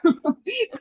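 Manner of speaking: light high-pitched laugh. Real, not acted. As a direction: laugh lightly at your own guess. Laughing at own guesses mid-question. (risa ligera y aguda)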